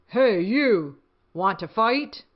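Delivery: loud, bossy challenge; picking a fight with a gorilla, loud and grouchy; grouchy ladybug. Acted. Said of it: "the grouchy ladybug said".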